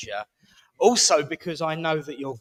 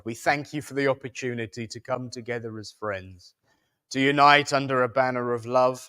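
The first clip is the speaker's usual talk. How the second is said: prayer; 2 semitones lower than usual. Acted. Host closing the evening for friends, solemn prayer. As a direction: lead the room in reverent prayer.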